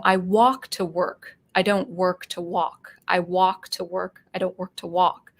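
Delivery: slow, wide-mouthed American demo; American accent. Shown as a demonstration. Showing listeners the American vowel, slow American accent. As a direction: say it slowly in plain American English. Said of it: "the American would say a sentence like".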